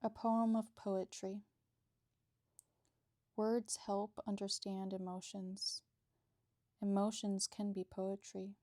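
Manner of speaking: measured, even poem recital with pauses between lines; poem reading. Acted. Bookbinder reading own poetry to viewers, measured poem recital. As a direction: read your poem out firmly, line by line.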